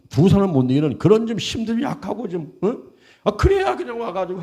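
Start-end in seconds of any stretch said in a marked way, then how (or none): none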